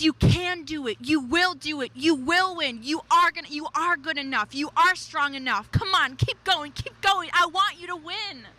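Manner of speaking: a lightly voiced coach cheering you on; encouraging coach, lifting on keep going. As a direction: urge them on like a trainer, keep going. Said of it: "that coach, he speaks".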